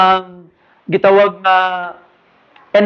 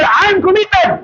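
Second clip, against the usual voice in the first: higher, louder, slower chant; 10 semitones higher, slower than usual. Shown as a demonstration. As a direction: push the crowd to shout it back.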